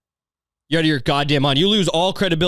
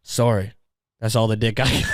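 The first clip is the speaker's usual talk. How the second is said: lower, mock-apologetic dirty talk; sheepish apology; 4 semitones lower than usual. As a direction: own up sheepishly, as a joke. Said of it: "you go the other way".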